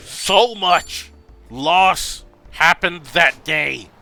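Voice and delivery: loud, very slow, high wail; anguished lament. Real, not acted. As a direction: stretch out each word in loud grief. Overcome by tragic game story.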